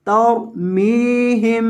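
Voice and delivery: तर्मीहिम with the last मीम hummed through the nose; nasalised final meem. Shown as a demonstration. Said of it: "इसको गुन्ना करना है". (आखिरी मीम पर गुन्ना)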